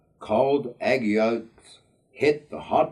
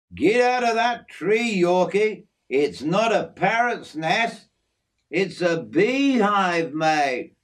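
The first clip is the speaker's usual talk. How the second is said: higher-pitched, urgent call to a mate; urgent warning; 7 semitones higher than usual. A narrator's reading. Jim warns Yorkie about the beehive, urgent warning. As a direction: warn him off, drawing out the key word.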